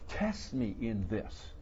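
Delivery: slow, soft invitation; God's gentle challenge. Acted. God invites the people to test him, slow calm invitation. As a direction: offer it slowly and calmly.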